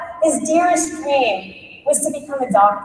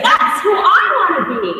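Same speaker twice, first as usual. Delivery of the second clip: determined; 5 semitones higher than usual. Retold or imitated. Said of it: "and she said".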